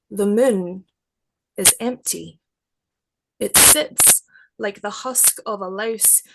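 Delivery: measured, unhurried poetry reading; poem reading. Acted. Poet reading her werewolf prayer to the interviewer, measured poetry voice.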